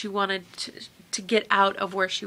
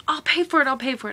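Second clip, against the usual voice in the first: imitated plea, first bid higher and louder; mildly insistent offer, pitched up then settling; retold begging; 4 semitones higher, 4 dB louder, faster than usual. Friend insists on paying for the trip, begging. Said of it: "I remember her begging me".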